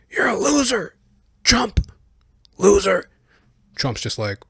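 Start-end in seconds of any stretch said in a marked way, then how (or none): 0.0-3.1 high squeaky taunt; mock Biden taunt. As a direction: jeer at Trump in a cartoon-high voice. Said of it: "He goes".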